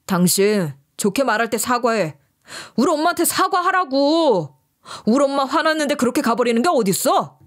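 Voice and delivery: mock furious husband; angry husband. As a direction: snap at her to apologize now. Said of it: "화난 얼굴로 시어머니한테 사과하라고 또 난리를 치는".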